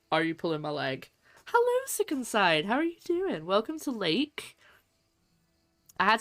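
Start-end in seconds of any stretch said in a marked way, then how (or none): 1.5-4.6 cheery greeting. Real, not acted. Greeting chat viewer.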